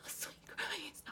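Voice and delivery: hushed awed gasp; whisper. Acted. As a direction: breathe it out softly.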